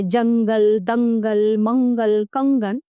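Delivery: जंगल, दंगल, मंगल, कंगन with a full ng through the nose; nasal anusvara. Shown as a demonstration. Teacher showing anusvara, जंगल, दंगल, मंगल, कंगन with a nasal ng. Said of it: "इसका उच्चारण नाक से होता है".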